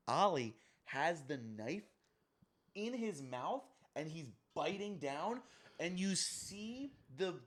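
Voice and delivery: slow, hushed, rising in pitch; suspenseful telling. Real, not acted. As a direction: hush it and draw out the dread. Builds up to gruesome scene.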